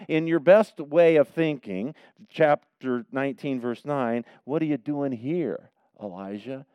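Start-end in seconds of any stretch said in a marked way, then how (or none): 4.4-6.7 gently. Pretend. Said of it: "I hear him saying it gently".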